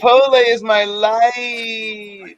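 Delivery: slow, savoring every word; drawn-out savoring. Acted. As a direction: drag it out like a devotion. Savoring a favorite food.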